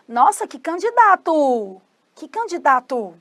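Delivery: drawn-out, admiring "what a candidate"; impressed exclamation. Acted. Teacher acts an onlooker's exclamation.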